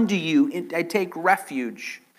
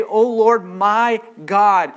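louder, fervent "Oh Lord, my God"; confessing aloud; 3 semitones higher, 6 dB louder, slower than usual. Acted. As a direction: say it like you mean it. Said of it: "Can you say".

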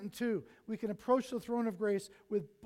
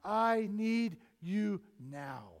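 slow, louder earnest praying; bold prayer; 4 dB louder, slower than usual. Pretend. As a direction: pray out loud with confidence. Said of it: "approach the throne with boldness and say".

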